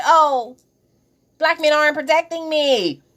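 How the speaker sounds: high, put-on aggrieved voice; mock complaint. Imitating women who turn around and complain, high mock complaint. Acting out the complaint she criticises.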